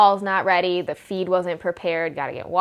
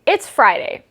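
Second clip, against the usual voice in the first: surprised; 4 semitones higher, 5 dB louder than usual. Retold or imitated. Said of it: "And I'm like".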